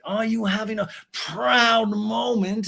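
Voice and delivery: high, slow, posh voice; Lisa impression. Lisa inspects the sandwich, high slow posh voice. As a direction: savor each word like a grande dame.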